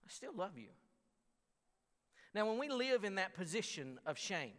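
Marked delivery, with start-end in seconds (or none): 0.0-0.7 father's tender words. Retold or imitated. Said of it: "and he said".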